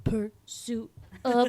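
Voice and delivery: slow, drawn-out whisper; whispered title. Acted. Host imagining a theme song for the serious film, whispering. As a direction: breathe each word out slowly.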